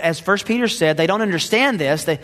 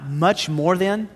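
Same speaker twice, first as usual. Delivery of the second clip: slow, with a rising question on than; mock astonishment at Paul's words; puzzled slow Much more than with a rise; incredulous question; slower than usual. Shown as a demonstration. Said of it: "Stop. Wait a minute, Paul".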